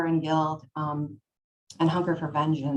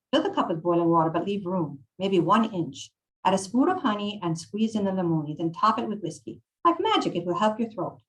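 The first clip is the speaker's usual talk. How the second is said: put-on lightly accented old Italian woman; Italian-accented, motherly instructions; Maria, Italian accent; 2 semitones higher than usual. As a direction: give a home remedy in a put-on Italian accent. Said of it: "I'm going to butcher an Italian accent".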